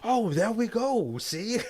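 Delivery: high, loud, slow laughing "there we go"; laughing gloat. Retold or imitated. Vampire gloating at the accusing woman, laughing. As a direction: crow over being found out. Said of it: "He's like".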